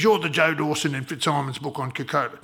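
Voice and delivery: put-on a very old man on the phone, gravel in the voice; gravelly old man voice. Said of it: "the gravelly voice of a very old man".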